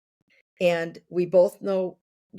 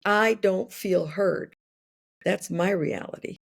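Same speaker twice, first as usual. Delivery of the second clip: calm and sincere. Shown as a demonstration. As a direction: say it calmly, owning your hurt. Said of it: "it's not until I learn to say".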